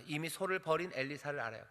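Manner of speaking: usual speaking voice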